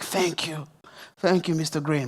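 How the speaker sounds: soft, subdued thanks, only a touch of tears; retold tearful thanks. Pastor voicing the mother thanking him after prayer, understated tearful thanks. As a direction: imitate her quietly grateful after sobbing. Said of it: "starts to sob afterwards".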